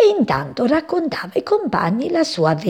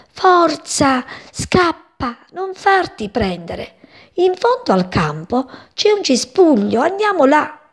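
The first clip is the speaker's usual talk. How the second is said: urgent call; 7 semitones higher than usual. A narrator's reading. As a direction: shout to the hurt friend to flee. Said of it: "gridando alla compagna ferita". (richiamo urgente, acuto e forte)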